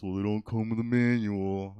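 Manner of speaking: mock know-it-all parent. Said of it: "You probably heard this".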